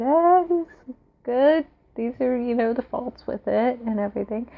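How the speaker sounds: high, shrugging meh voice; lukewarm reviewer. Retold or imitated. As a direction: say it with a half-hearted shrug.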